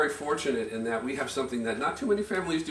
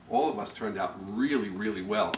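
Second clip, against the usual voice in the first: lower, earnest retelling; dead serious; 4 semitones lower, 3 dB quieter than usual. Retold or imitated. Huck taking the speaker aside, imitated as dead serious. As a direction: imitate a man in solemn earnest. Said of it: "Huck was dead serious about this".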